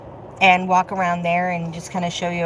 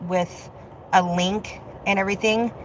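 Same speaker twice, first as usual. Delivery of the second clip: holding in a sneeze mid-sentence; holding back a sneeze; 4 dB quieter than usual. Real, not acted. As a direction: talk while fighting off a sneeze. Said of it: "Sorry, I'm trying not to sneeze".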